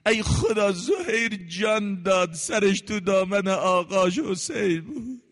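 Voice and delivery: slow, crying-out lament; lamenting preacher. Acted. Preacher mourning Zuhayr's death to the crowd, slow lament. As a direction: call out to God in grief.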